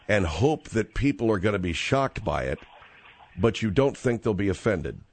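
careful calm. Acted. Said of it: "I'd like to ask a que-, one more question".

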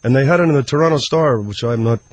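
lightly voiced Canadian hockey player; halting, dim-witted hockey player reading news; Moose McGoran. Hockey player fumbles through celebrity news, lightly voiced Canadian. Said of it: "trying to do a Canadian voice".

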